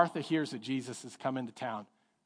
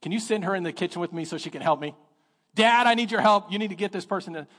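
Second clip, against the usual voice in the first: whiny complaint; 5 semitones higher, 4 dB louder than usual. Retold or imitated. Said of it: "interrupts the whole service and goes".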